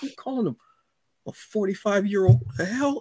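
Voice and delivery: a hint of a shocked "excuse me?"; mock indignant. Reacting to the story character, mock offended. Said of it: "I was like".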